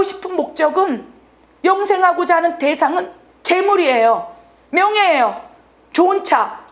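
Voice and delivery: high-pitched, insistent declaration; defiant rejection. Acted. Adam tells God he is not needed, defiant.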